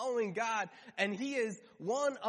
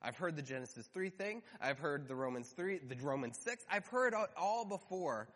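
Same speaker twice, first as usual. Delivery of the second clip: dismissive skeptic; 4 semitones lower than usual. Pretend. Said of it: "you're thinking".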